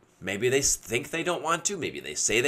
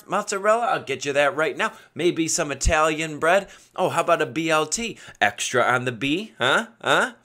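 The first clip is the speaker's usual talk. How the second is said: playful, higher-pitched eager offers; upbeat sales patter; 4 semitones higher than usual. Retold or imitated. Buddy playing the eager sandwich maker, upbeat. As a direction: push each sandwich with joking eagerness. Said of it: "say it very upbeat".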